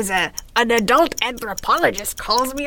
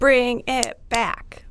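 whispering; much slower than usual. Real, not acted. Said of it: "whispered plea for show".

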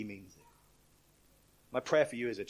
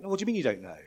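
angel; 8 semitones higher, 4 dB louder, much faster than usual. Retold or imitated. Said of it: "And he's like".

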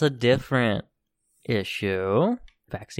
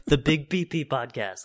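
laughing through the title. Real, not acted. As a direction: say it while laughing. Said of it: "That's what I was going for".

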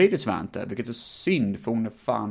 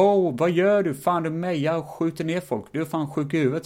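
shocked exclamation; 7 semitones higher than usual. Retold or imitated. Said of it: "hon ser på och bara".

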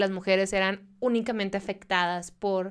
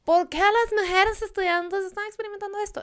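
curious researcher; 11 semitones higher than usual. Retold or imitated. Researchers' wondering quote, high.

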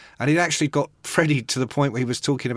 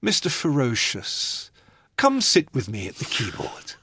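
Impression of a singer. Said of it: "Freddie looks up from the piano and goes".

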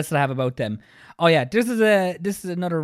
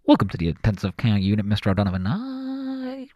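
a lightly done doctor breaking bad news like a pilot announcement; pilot-style doctor; 6 semitones lower than usual. Podcast host mocking doctors, lightly voicing a doctor like a pilot. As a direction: deliver the bad news like a captain on the intercom. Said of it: "using a pilot-style approach".

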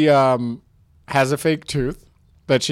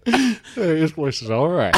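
slow lazy Western saloon drawl; old Western drawl. Retold or imitated. Improviser repeating the line in a lightly voiced Western drawl. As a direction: lean back and drawl it out. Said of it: "like old Western times".

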